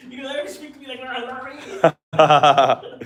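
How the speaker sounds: high screeched American impression, bursting loud on the name; mock American scream. Acting an American screaming at Larry, mock scream. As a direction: screech it as an outraged American, hammed up. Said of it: "she was screaming".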